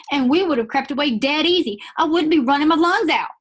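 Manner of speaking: high, loud, furious shout; Jimmy yelling at the prince in a high, furious voice; furious reading. Shown as a demonstration. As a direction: read it like a boy who's been betrayed. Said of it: "Jimmy is furious".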